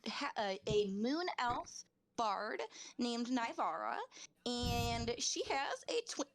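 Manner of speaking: talking through hiccups; words broken by hiccups. Real, not acted. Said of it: "excuse my hiccuping".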